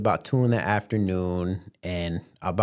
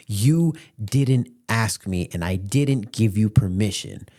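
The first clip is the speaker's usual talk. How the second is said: slow, deliberate imitated reprimand; stern mom; 3 dB louder, slower than usual. Mom denying son permission, slow stern imitation. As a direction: spell it out word by word.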